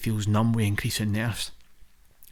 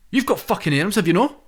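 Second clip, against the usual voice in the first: put-on Scottish accent; 8 semitones higher, 5 dB louder than usual. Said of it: "I was like".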